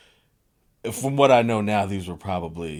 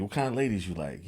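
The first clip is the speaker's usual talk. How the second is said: put-on Jamaican accent; 5 dB quieter than usual. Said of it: "he's doing it with a Jamaican accent".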